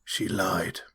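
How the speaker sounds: hushed, breathy reveal; dramatic whisper. Acted. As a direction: lean in and whisper the secret. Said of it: "dramatic reveal to group".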